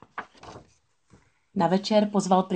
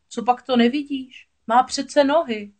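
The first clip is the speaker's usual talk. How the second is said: higher, slightly louder insistence; exasperated explaining; 7 semitones higher, 5 dB louder than usual. A narrator's reading. Crab showing a friend her legs, exasperated. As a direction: point out the obvious, stretching the end.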